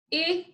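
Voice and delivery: i and ks of FIX said separately; sound by sound. Shown as a demonstration. Teacher saying the sounds inside the word, one by one. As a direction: split the end of FIX into i... ks. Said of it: "say the sounds that we hear inside".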